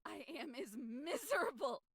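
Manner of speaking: tearful. Acted. Miserable outburst.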